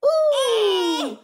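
loud high playful ooh; laughing ooh for the child; drawn-out ooh. Shown as a demonstration. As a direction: stretch the ooh sound out big. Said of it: "you say ooh".

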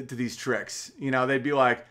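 ordinary delivery

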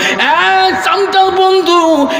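high, stretched hail to the crowd; calling out. Real, not acted. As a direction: hail the audience in a ringing high call. Preacher calls out to audience.

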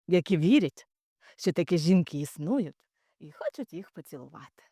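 calm, measured explanation; sit them down and explain it calmly; calm telling-off. Retold or imitated. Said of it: "так спокійно сказати".

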